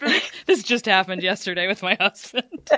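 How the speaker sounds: talking through laughter. Explaining why a point about interrupting hits home, laughing while talking. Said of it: "I'm sorry I'm laughing".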